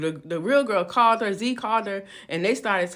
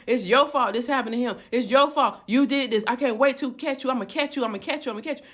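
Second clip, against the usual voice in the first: retold blaming; 2 semitones higher than usual. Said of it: "They're all blaming her".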